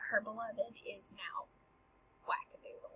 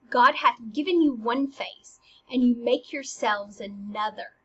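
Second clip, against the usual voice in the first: raised voice, firmly stressed reading; declaimed accusation; 5 dB louder than usual. Acted. Hamlet accusing Ophelia about makeup, declaimed.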